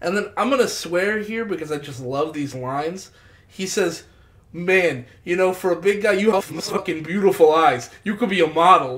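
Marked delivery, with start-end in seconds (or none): 4.5-9.0 mock hostile, aggressive, angry tone on friendly words. Retelling how someone complimented a stranger: imitating an aggressive tone. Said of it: "an aggressive tone and, like, anger on his face".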